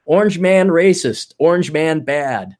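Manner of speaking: slow, robotic chant; NPC voice. Retold or imitated. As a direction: drone it like a programmed NPC. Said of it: "it says C N N and all the gray faces".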